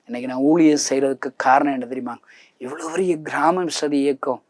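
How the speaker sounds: ordinary talk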